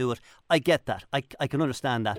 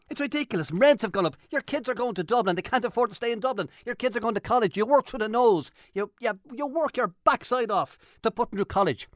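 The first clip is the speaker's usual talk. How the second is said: angry rant; 4 semitones higher than usual. Real, not acted. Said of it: "I can hear the anger in your voice".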